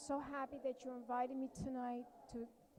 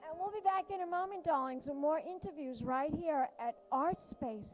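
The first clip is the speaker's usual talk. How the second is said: theatrical drag host sign-off; campy drag queen; 4 dB louder than usual. Acted. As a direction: purr it out like a drag diva. Host signs off campily.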